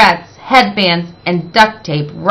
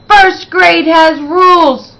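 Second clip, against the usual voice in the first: higher, louder strict teacher; stern reminder; 9 semitones higher, 4 dB louder than usual. Acted. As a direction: remind the class firmly. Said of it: "Miss Trisk reminded the class".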